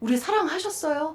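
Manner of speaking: high, defiant talking-back tone. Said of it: "이렇게 대드는 그런 말투".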